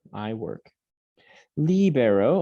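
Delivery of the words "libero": LEE-be-ro, opening higher and louder; stress on first syllable. Shown as a demonstration. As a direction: punch the LI of Libero. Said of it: "with that accent mark".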